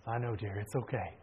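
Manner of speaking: low, soft mock-soothing reply; gentle reassurance. Father calming his worried daughter, softly reassuring imitation.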